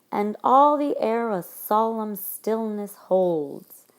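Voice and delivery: slow, loud "And all the air a solemn stillness holds", leaning on the L words; measured line reading with weight on "all", "solemn", "stillness", "holds"; stressed L sounds. Shown as a demonstration. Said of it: "double L sound in all".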